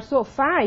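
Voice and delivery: "sofá" with an open final á. Shown as a demonstration. Teacher showing vowel differences to students, "sofá" with open á. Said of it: "nós temos essas diferenças também".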